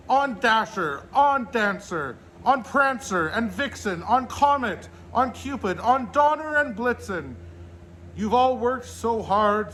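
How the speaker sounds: high, loud rallying call, name by name; yelling to the team. A narrator's reading. Santa yelling ahead to his reindeer at takeoff, rousing. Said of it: "yelled ahead to his team".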